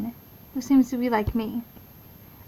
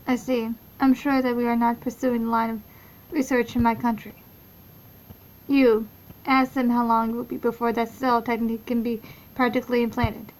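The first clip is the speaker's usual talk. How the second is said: vlak, zonder enige melodie; monotone voice. Acted. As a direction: lees het emotieloos af. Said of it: "I'm gonna leave in my monotone voice".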